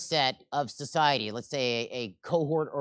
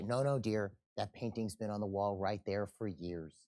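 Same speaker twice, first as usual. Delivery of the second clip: soothing husband; 6 semitones lower, 9 dB quieter than usual. Acted. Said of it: "But what does he say?".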